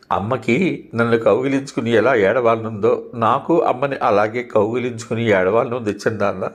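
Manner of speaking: put-on a girl begging through mild sobs; understated weeping question to her uncle; sobbing. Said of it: "అంది వెక్కుతూ".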